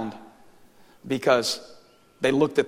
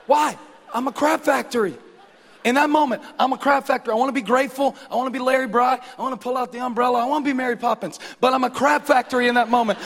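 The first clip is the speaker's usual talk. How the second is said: high, loud comic wail of self-reproach; hammed-up self-loathing outburst; exasperated mock rant; 10 semitones higher, 4 dB louder than usual. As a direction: wail it out like an overblown tantrum. Mock rant at own failing.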